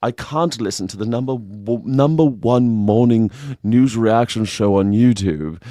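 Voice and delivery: lightly put-on English accent, slow; a hint of an English accent reading the complaint. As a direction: quote the viewer in a mild English accent. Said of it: "they said it in an English accent".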